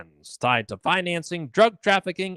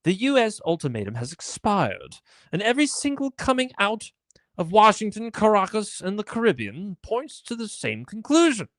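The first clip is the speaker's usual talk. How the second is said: rough English accent, hammed up and half-kept. Mocking Jim Ferguson's war post in an English accent. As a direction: read it like a British war blogger, not quite landing the English accent. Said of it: "maybe I should try and do it in an English accent".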